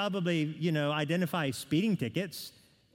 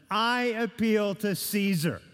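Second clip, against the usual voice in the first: Paul's solemn appeal; 4 semitones higher than usual. Retold or imitated. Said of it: "he utters those famous words".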